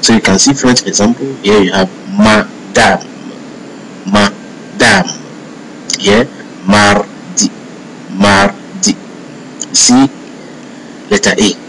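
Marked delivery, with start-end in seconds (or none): 2.2-5.1 "madame" as "ma-dahm", open A in both syllables; French "madame"; French A sound. Shown as a demonstration. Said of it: "always sounds A in French". 6.7-8.9 "mardi" as "mar-dee" with open A; French "mardi"; French A sound. Shown as a demonstration. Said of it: "always sounds A in French".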